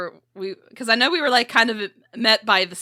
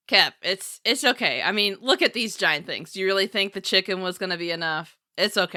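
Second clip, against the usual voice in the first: softly reassuring brother, a touch lower; calm her down gently; gentle reassurance; 3 semitones lower, 4 dB quieter than usual. Acted. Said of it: "be like".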